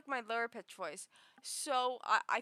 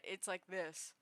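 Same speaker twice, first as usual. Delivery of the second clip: a lower, softer, relaxed voice; lower pitch demo; 6 semitones lower, 8 dB quieter than usual. Shown as a demonstration. Streamer showing viewers her lower voice. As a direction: drop the voice down to show it. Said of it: "If I lower it".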